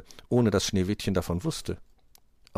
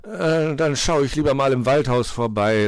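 higher, louder flustered backtrack; taken-aback cook; startled cook; 6 semitones higher, 7 dB louder than usual. A narrator's reading. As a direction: stammer an "Äh", then back off hastily. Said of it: "Der Koch erschrak und meinte".

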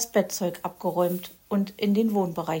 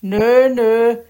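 quick refusal; 3 semitones higher, 8 dB louder than usual. A narrator's reading. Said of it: "erwiderte er schnell".

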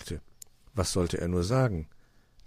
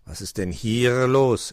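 slow raven voice with rolled r; drawn-out, emphatic bird character; inquiring raven; 4 semitones higher, 7 dB louder, slower than usual. A narrator's reading. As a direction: ask like a pompous old-fashioned raven. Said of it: "erkundigte sich Meister Schwarzrock".

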